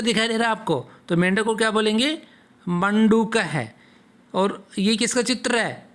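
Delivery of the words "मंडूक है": मंडूक said slowly, each syllable drawn out for the class; slow model pronunciation. Shown as a demonstration. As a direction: spell out मंडूक slowly so pupils can repeat. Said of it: "साथ साथ में आप ही उच्चारण करोगे".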